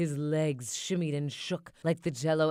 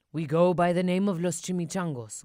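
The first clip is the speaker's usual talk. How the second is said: growled; 5 dB louder than usual. Acted. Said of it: "growled Don Diego".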